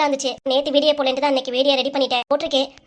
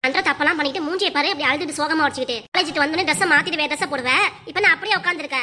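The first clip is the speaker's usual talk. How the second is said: raised, heated scolding back and forth; mother daughter quarrel; 4 semitones higher than usual. Acted. Mother scolds her daughter over a secret lover, heated and raised. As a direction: argue like a mother catching her daughter in love.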